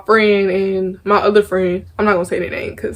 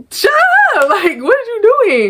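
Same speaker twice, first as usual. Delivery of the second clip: mock yell; 13 semitones higher than usual. Retold outburst at gossiping girls.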